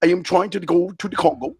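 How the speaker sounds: put-on broken-English African accent; mock African accent. Host answering an African caller, mock African accent.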